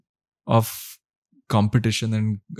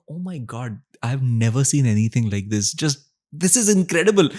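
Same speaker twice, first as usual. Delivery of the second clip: amazed bartender; 3 semitones higher than usual. Retold or imitated. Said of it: "He's like".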